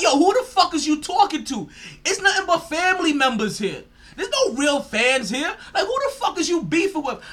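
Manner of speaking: high, loud mocking yell with laughter; laughing yell. Mocking the player's rant at fans, laughing loudly. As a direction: shout it while cracking up. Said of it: "I'm like".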